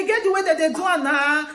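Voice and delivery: a firm, sure-of-himself statement; with authority. Retold or imitated. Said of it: "he dey talk with authority".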